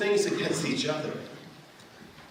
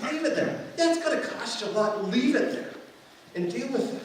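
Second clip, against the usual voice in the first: quoting God; 7 semitones higher than usual. Retold or imitated. God's command quoted, raised voice.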